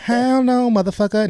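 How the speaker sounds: high, loud mock outraged mom; hammed-up angry baby mom. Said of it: "I'm trying my best to sound like her".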